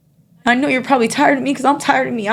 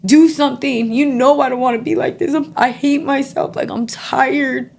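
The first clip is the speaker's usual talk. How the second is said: retold yell at God; 4 semitones higher than usual. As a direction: plead on your knees, voice raised high. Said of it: "I yelled at God".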